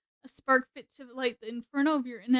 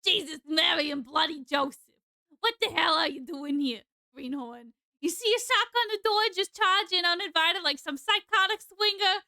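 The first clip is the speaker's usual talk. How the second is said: brash lady voice; 4 semitones higher than usual. Acted. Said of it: "That's just how I think this lady sounds".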